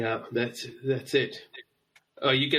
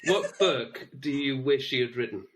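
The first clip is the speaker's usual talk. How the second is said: careful diction. Real, not acted. Careful restart after being teased.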